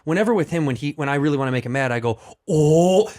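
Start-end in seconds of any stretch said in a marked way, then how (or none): 2.5-3.1 exaggerated Asian-accent wind-up, louder; hyperbolized accent. Shown as a demonstration. Comic winding up his friend, exaggerated Asian accent. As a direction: start a hammed-up Asian accent, loudly. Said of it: "a hyperbolized version".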